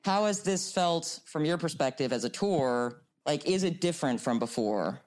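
speaking through a face mask; muffled, mouth covered by mask. Real, not acted. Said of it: "If I sound muffled, it's 'cause I'm masked".

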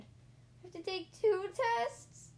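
high, loud, stretched-out question; slow rising wail of dismay; dismayed disbelief. A narrator's reading. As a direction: balk at it, pitch climbing. Panicked at second test.

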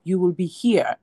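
mild retold insistence from the husband; husband's firm protest. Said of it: "And he's like".

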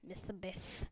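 odd put-on way of saying Mister Beast; silly Mister Beast. Shown as a demonstration. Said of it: "I'm gonna say Mister Beast like this".

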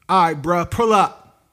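lightly voiced dismissive worker; imitating the clerk. Quoting the Subway worker at the drive-through, mock casual call. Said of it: "That's how he, that's exactly what he said".

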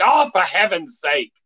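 mock-exasperated exclamation. Shown as a demonstration. Host showing what the saying means, mock exasperation. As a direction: let out a mildly exasperated demo sigh of a phrase. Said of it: "like, exasperation".

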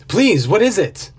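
begging from the cold water; shivering plea. A narrator's reading. Cold man begs for the secret, shivering plea.

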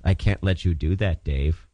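low, calm computer voice; lightly imitating a calm AI; HAL impression. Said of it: "what's something Hal says".

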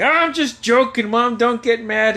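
high, pleading backpedal; imitated placating brother. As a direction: plead that it was a joke. Brother placates angry mother.

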